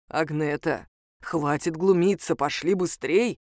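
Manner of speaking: the wolf Ismail hurrying the heroine, low voice; wolf's voice. Acted. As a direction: call her along, low and weary. Wolf calls her to hurry.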